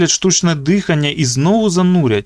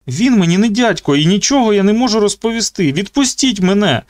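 higher, desperate pleading; trapped boy begging his captor; frightened boy pleading; 8 semitones higher than usual. Acted. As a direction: beg to be let go. Luke begging.

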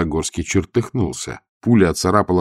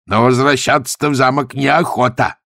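mildly raised, higher cry; shouted protest; 6 semitones higher, 4 dB louder than usual. A narrator's reading. Gonzalin objects to turning back, shouting. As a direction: shout the objection to your companion. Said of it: "крикнул Гонзалин".

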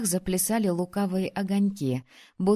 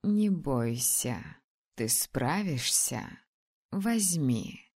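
slow, low, soothing dragoness; gentle dragon voice; 6 semitones lower, 4 dB quieter, much slower than usual. Acted. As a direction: reassure her like a wise dragon. Dragon comforts girl.

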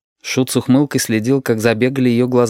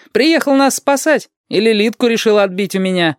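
higher, mocking banter; teasing; 12 semitones higher than usual. Shut teases Dima about stealing Lidka, higher and mocking. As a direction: needle him playfully.

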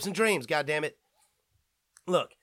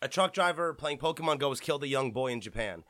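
sober, respectful; 3 semitones lower than usual. Real, not acted. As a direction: say it gently and respectfully. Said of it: "jokes aside, people".

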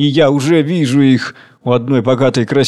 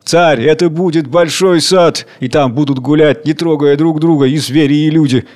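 raised, fervent declamation; impassioned plea; 2 semitones higher than usual. Acted. Worker begs the king not to laugh, impassioned. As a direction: plead with visionary ardour.

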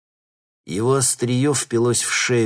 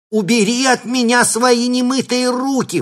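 much higher, louder scolding granny shriek; old woman shouting; 8 dB louder than usual. A narrator's reading. Shapeshifter as granny scolding the thug, shrieking. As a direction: shriek like an outraged old lady. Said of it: "выкрикнула старушка".

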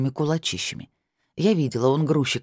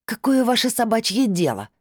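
rude yell; 8 semitones higher than usual. A narrator's reading. Woman yelling rudely at neighbour.

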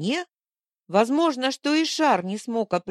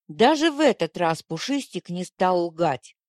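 ordinary delivery, nothing marked

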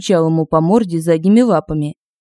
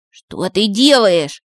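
frightened; 2 semitones higher, much slower than usual. Acted. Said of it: "испугался Иванушка".

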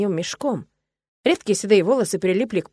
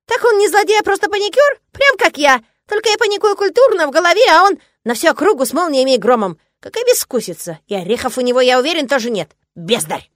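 squeaky critter voice; 8 semitones higher, 6 dB louder than usual. A narrator's reading. Шишок chatters on.

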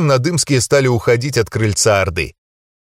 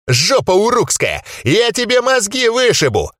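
spitting rage; 10 semitones higher than usual. Acted. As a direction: spit the threat out in fury. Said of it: "брызгал слюной гном".

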